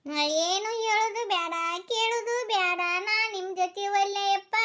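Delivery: slow, sing-song crying protest; weepy, dragged-out refusal; tearful wailing. Acted. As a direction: draw the words out in a mild wail. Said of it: "ಅಳುದ್ ನಿಂದ್ರಸು".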